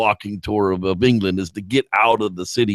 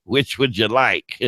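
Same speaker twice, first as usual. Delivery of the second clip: put-on old hag barmaid; much slower than usual. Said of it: "the old hag is like".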